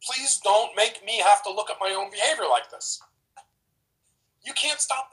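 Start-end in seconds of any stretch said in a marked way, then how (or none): 0.0-3.0 higher, whiny mock plea; mock defensive plea. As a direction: plead not to face it. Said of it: "a whole bunch of defensive".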